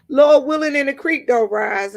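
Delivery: church saying. Retold or imitated. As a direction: belt it like an old churchgoer. Quoting church folks' reply.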